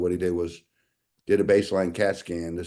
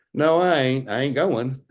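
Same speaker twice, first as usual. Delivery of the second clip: mildly emphatic refusal, pitched higher; imitating a stubborn no, higher-voiced; retold stubborn refusal; 5 semitones higher, 3 dB louder than usual.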